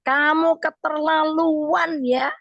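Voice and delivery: drawn-out scolding in the wife's voice; wife snapping at her husband over the gift, mild mock yell; retold wife's yell.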